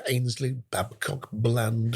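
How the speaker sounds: lightly voiced headmaster reading the register; a hint of a stern headmaster calling names; headmaster roll call. Schoolboy doing the headmaster routine, lightly voiced roll call. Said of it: "I would do the headmaster routine".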